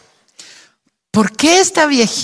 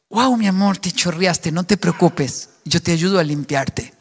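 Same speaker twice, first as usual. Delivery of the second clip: gently calm him down, no reproach; tender wife; 3 semitones lower than usual. Pretend. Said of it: "Diferente sería es".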